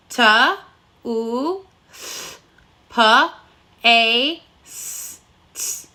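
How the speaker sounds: toothpaste split into separate sounds, S and T unvoiced; sounding out phonemes. Shown as a demonstration. Teacher sounding out "toothpaste" phoneme by phoneme. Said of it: "let's sound it out together".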